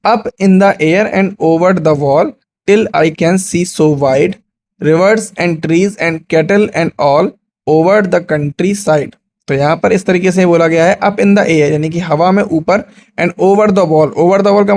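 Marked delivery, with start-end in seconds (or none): 0.1-9.1 slow, measured classroom recitation; unhurried, evenly paced poem reading. Shown as a demonstration. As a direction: recite the verse slowly, word by word. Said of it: "let us recite".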